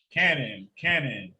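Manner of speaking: low, echoing DJ tag call; beat intro drop. Pretend. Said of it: "you really sounded like the, uh, the beat intro".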